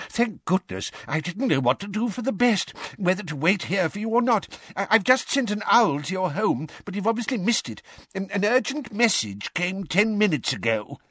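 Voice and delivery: put-on high, flustered old man's voice; a nervous old clerk babbling fast; timid old wizard. A narrator's reading. Perkins fretting to Arthur about the urgent message, high and flustered.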